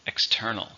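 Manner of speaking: External, stressed on TER; second-syllable stress. Shown as a demonstration. Teacher models External for learners, stress on TER. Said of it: "stress in the second".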